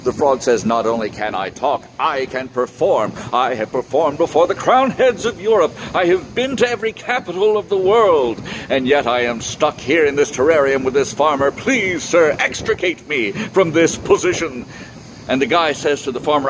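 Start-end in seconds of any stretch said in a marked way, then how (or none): 0.6-11.5 a lightly voiced grand frog bragging; boastful frog. 11.5-14.6 a lightly voiced frog, formally begging; pleading frog. Frog pleads again, fancier words.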